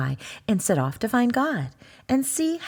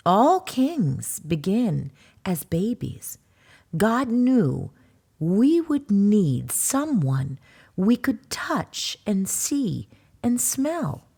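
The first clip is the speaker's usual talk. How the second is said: slow, gentle explaining; a mama soothing her cub; slow tender mama voice; tender mother bear; slower than usual. Acted.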